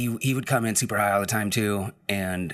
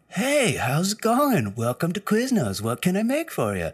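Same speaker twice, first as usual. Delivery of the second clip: higher lazy stoner voice greeting a customer; stoner cashier voice; 11 semitones higher than usual. Retold or imitated. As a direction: play a stoned worker welcoming a customer.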